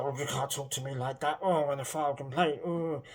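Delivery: huffy, prissy put-on referee voice; lightly mock the precious ref; a hint of a wounded official; mock offended referee.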